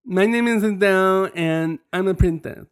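high, mushy-consonant pet voice; Izelle. Acted. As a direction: play a princess dog with muddled speech. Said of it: "she talks like this".

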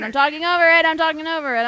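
talking over. Real, not acted.

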